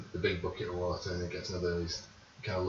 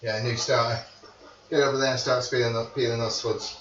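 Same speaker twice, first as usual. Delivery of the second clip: bossy head cook; 2 semitones higher, 6 dB louder than usual. Acted. Chef NPC gives orders.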